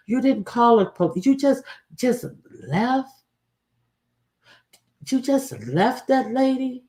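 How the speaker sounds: reproachful address. Real, not acted. Directly scolding the absent woman.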